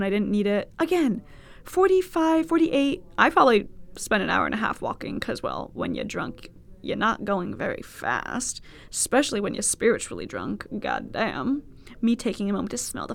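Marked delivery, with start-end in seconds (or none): 5.2-8.6 whispered aside. Real, not acted.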